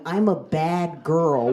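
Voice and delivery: slow, slurred as if fainting; dazed fainting mumble, drawn out. Retold or imitated. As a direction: mumble it while hitting the floor. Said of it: "I just hit the ground going".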